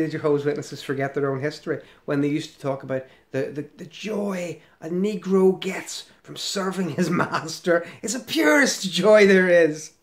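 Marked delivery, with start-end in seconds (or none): 3.8-9.9 slow, hammed-up sarcastic rapture; mock reverence. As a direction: raise and stretch it in mock delight. Sarcastically voices organisation's old teaching.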